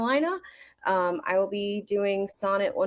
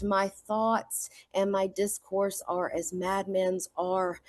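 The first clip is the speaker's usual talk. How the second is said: poem recitation. Acted. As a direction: give the sonnet its full feeling. Recites Sonnet 147.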